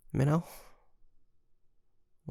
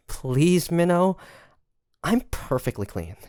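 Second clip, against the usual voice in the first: laughing plea; 7 semitones higher, 3 dB louder than usual. Acted.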